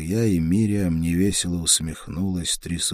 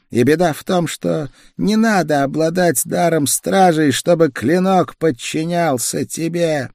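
despairing feverish woman; 10 semitones higher, 6 dB louder than usual. A narrator's reading. Woman despairs about dark souls.

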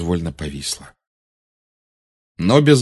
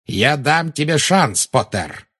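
higher, taunting call to Potter; calling across the hall to Potter; Bellatrix calling out; 6 semitones higher, slower than usual. Acted. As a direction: call out the offer, slow and mocking. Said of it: "крикнула Белатриса".

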